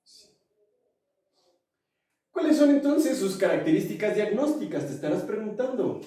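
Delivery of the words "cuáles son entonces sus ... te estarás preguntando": infomercial host voice. Pretend. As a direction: sell it like a late-night TV ad. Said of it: "Me sentí como infomercial".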